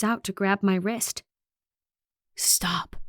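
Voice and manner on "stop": soft, urgent whisper; hushed, voiceless warning. A narrator's reading. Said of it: "he whispers".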